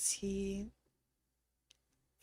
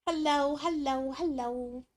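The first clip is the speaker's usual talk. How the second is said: calling hello; 9 semitones higher than usual. Real, not acted. Calling out to chat.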